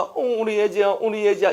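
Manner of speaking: put-on high-pitched cooing to a crying child; acted parental fussing; doting parent.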